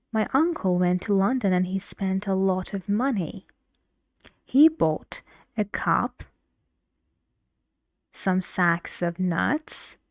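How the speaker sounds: each item rising, the last one falling; teacher demo of a rising list that falls at the end; list intonation. Shown as a demonstration. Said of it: "How did I use intonation in my sentence? All rising up to".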